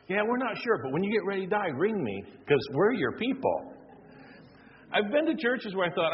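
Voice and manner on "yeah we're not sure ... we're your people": airy dismissive church voice; churchy brush-off, cheerful and hollow; mock church voice. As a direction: brush him off like a bored clerk. Mocking church's answer.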